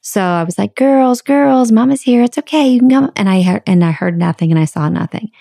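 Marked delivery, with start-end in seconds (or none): 0.8-3.1 high, louder coaxing call; sing-song calling, mama's here; calling chickens. Retold or imitated. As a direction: coax the hens out from hiding.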